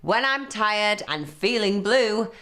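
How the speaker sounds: a sore-headed troll growling his rhyme; grumpy troll. Acted. Troll threatening the little goat, grumpy and loud.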